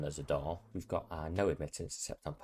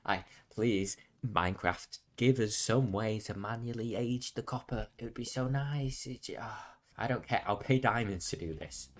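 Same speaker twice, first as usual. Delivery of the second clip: loud, higher desperate begging; pleading; 4 semitones higher, 4 dB louder than usual. Real, not acted. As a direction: beg the game for mercy. Begging the game.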